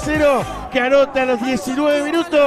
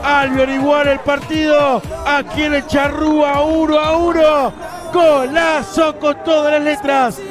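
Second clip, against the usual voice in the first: shouted post-goal celebration; excited goal commentary; 2 semitones higher than usual. Real, not acted. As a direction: celebrate the stunning strike. Shouted celebration after equaliser.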